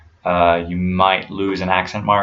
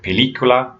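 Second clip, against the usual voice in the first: "película" with the second syllable, lí, stressed; Spanish "película", weight on lí; 4 semitones higher than usual. Shown as a demonstration. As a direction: lean on the í in "película". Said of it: "there's an accent on the I".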